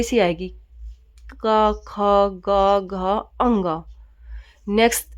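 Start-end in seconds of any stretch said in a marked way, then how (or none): 1.3-3.8 का, खा, गा, घा, अंगा said slowly and clearly from the throat; throat sounds demo. Shown as a demonstration. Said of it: "जैसे बोल के देखो". (कंठ से स्पष्ट उच्चारण करके दिखाना)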